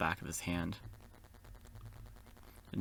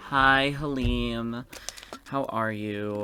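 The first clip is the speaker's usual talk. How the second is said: drawn-out, louder playful hello; playful greeting; 3 semitones higher, 6 dB louder, much slower than usual. Pretend. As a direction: stretch the greeting out in mock sweetness. Greets the game character playfully.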